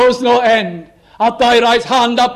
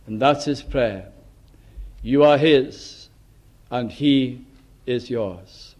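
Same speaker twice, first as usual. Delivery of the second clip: fading to hush; 7 semitones lower, 5 dB quieter than usual. Real, not acted. Sermon fading into prayer.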